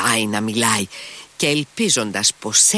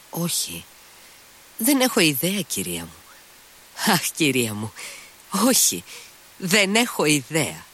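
nervous impatient outburst; 6 semitones higher than usual. A narrator's reading. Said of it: "Φώναξε νευρικά και ανυπόμονα".

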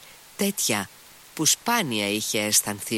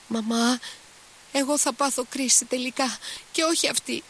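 put-on very high, agitated girlish wail; frightened. A narrator's reading. Girl warning her mother she'll have the fit, frightened. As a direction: threaten mama in a high panicky pitch. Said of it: "με τρομαγμένη τώρα τη φωνή της".

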